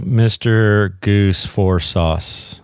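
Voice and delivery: slow, words said in reverse order; backwards speech. Pretend. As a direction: flip the line backwards, slowly. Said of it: "I said what he said backwards".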